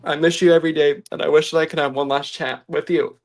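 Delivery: reading through real tears; choked-up letter to dad; ugly crying. Real, not acted. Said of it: "I'm ugly crying".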